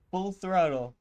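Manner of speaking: loud mocking echo; mock dramatic shout. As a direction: belt it out as a joke. Mocking the captain's order.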